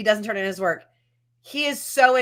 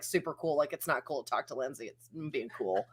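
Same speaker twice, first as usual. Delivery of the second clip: mock cool; 9 semitones lower, 13 dB quieter than usual. Imitating teen's cool manner.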